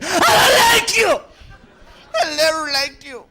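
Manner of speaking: high loud slurred yell; sudden drunken shouting; drunk outburst. Retold or imitated. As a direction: lash out like a bitter drunk.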